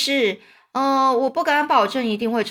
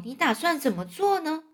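soft-edged, high ladybug voice; sweet, light questioning; gentle; 6 semitones higher, 4 dB quieter than usual. A narrator's reading. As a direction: ask tenderly, pitched high. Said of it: "瓢虫温柔地说".

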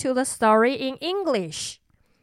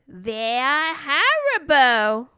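spooky storyteller maid; 2 semitones higher, slower than usual. Acted. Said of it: "said the maid".

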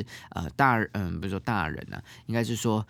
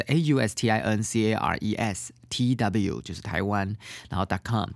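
letter by letter, each letter separate; spelling it out. Shown as a demonstration. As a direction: spell the name out one letter at a time. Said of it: "Austin Cares怎么拼呢".

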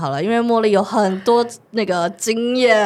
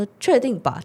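hesitant. Retold or imitated. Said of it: "就突然没有刚刚那么坚决了".

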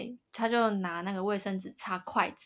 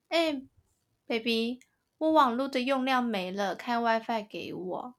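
imitating spoiled girlfriend; 3 semitones higher than usual. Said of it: "我刚刚为什么要学她讲话".

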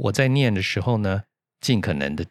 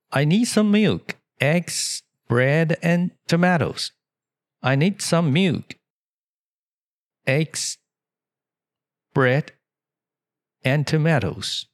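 higher-pitched customer asking for groceries; shop customer; 7 semitones higher than usual. Acted. Customer asks the store clerk for groceries, voiced higher. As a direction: play the shopper in a bright, higher voice. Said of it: "接下来那客人又问了哈".

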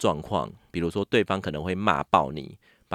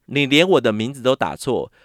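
louder, higher, fed-up outburst; furious retort; 3 semitones higher, 6 dB louder than usual. Retold or imitated. Agent enraged over his misspelled name, loud angry retort. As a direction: imitate the agent blowing up at her. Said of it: "然后看到以后更火".

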